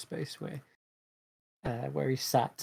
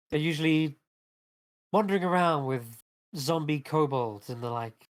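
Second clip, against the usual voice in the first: mildly berating, slightly raised pitch. Acted. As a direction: give them a measured telling-off. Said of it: "a berating voice as you approach".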